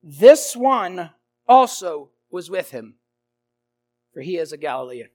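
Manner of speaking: confident assertion. Acted. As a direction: insist on it like no doubt exists. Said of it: "bold, confident assertion with emphasis".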